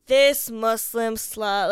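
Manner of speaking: half-yell it slowly, as the heckler did; imitated yelling. Retelling a man yelling about her on the train, mock yell. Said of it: "he's yelling".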